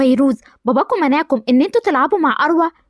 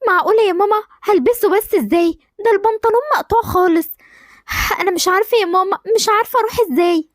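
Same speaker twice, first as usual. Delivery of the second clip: put-on higher, upset pleading girl; girl protesting to mother about wearing torn trousers, distressed; 5 semitones higher than usual. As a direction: plead with mom in dismay.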